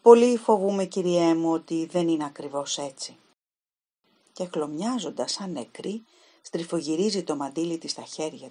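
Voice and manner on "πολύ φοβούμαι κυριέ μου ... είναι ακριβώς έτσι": put-on a frightened girl forcing out the truth; fearful confession. Helen admits to the detective she fears the worst, loud then fading.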